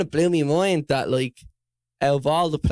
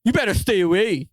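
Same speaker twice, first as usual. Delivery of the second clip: posh Estonian friend; 4 semitones higher than usual. Retold or imitated. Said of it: "he's real posh".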